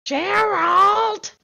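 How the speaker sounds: put-on high, loud Brooklyn-accent call; shrill Brooklyn wife calling her husband, Brooklyn accent; Brooklyn accent shout. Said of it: "that really heavy Brooklyn accent".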